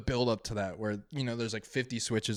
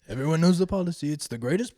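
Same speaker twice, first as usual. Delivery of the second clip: fast, higher, louder Trump brag; Trump impression; 4 semitones higher, 4 dB louder than usual. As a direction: boast like Trump. Trump bit continues.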